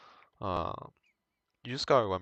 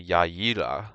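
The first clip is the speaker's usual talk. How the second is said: "Jag gillar" spoken as native Swedish; Swedish phrase; 2 semitones lower, 4 dB louder than usual. Shown as a demonstration. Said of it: "we can say".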